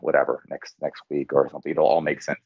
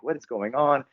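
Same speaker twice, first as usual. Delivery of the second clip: mildly exasperated, higher-pitched imitation; lightly acted skeptical protest; retold disbelief; 5 semitones higher than usual. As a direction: act out an audience that isn't buying it. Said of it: "had our arms folded and we're like".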